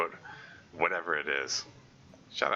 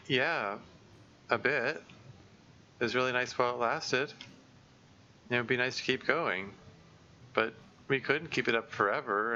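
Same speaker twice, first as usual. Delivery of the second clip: Monika's voice; 2 semitones higher than usual. Acted. Monika admits she'll miss it.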